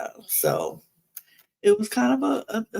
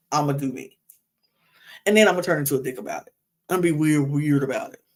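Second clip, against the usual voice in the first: mock inner voice; faster than usual. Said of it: "In his mind, he was saying".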